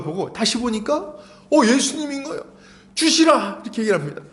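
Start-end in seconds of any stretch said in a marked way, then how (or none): 1.5-3.6 higher, surprised exclamation of recognition; John recognizing Jesus on the shore, surprised; excited cry. Acted. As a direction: realize it and cry it out.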